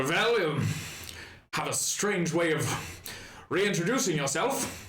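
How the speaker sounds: put-on lightly German-accented, wry. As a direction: leichter deutscher Akzent. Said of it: "hit a little German accent".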